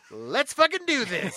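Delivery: fired up, loud and drawn out; hyped shout. Real, not acted. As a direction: roar it out with caffeine energy. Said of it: "I've had seven shots of espresso today".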